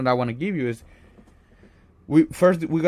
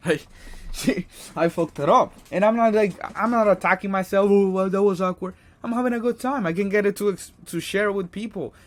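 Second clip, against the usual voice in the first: high, loud and bubbling with laughter; laughing it off; 8 semitones higher, 4 dB louder than usual. Real, not acted. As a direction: laugh through the words, shrugging it off. Laughing it off after rejection.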